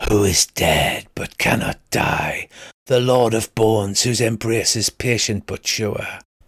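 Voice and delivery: slow, eerie, spooky whispering voice. Voicing an unseen voice greeting the party: whispering spooky voice. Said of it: "You all hear a voice whisper".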